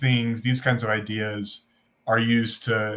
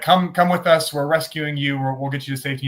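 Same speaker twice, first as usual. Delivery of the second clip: urgent rescuer; 4 semitones higher than usual. Acted. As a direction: call him aboard, mock urgency. Rescuers in joke calling to man.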